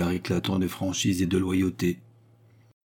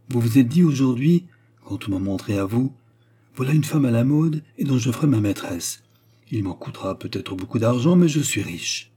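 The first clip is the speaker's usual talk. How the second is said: lightly voiced woman, raised and animated; knowing Baccarat; 4 semitones higher, 4 dB louder than usual. Baccarat guesses the count's thoughts aloud, knowing. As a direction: play back his thoughts with emphasis.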